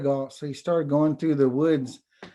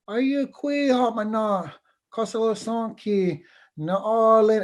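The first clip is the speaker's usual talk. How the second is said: high little bird voice; 7 semitones higher than usual. Acted. Little bird asks the oak.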